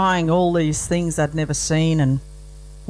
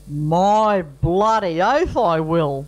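Cheryl accepting; slower than usual. Acted.

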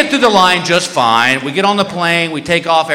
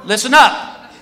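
acted guard addressing a whole line; mock-official crowd announcement, pitched up; public announcement; 3 semitones higher than usual. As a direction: announce it to the crowd, stretching the phrases.

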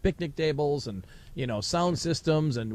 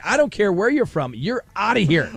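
raised, emphatic mock-angry dismissal; livid; 4 semitones higher, 4 dB louder than usual. Retelling the official rejecting the hosts' excuse, livid. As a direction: cut off the protest as a livid official. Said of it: "He was just livid".

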